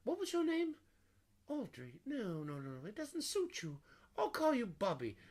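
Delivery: high, fussy bear-like voice; Porter's voice. Retold or imitated. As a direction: play the gentle cartoon bear. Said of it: "the way he says".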